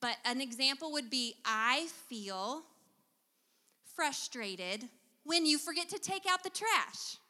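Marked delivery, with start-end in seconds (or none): 1.5-7.2 gentle startup. Shown as a demonstration. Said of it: "Do you hear the difference?".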